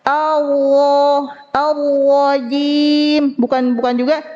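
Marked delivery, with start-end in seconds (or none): 0.1-3.3 slow ALLAHJIM for "ar-rojim", r untrilled; missing ro trill. Shown as a demonstration. Teacher showing what not to read, ro without vibration. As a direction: draw out ALLAHJIM with a vowel-like, unrolled r. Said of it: "Menghilangkan atau melebihkan getaran".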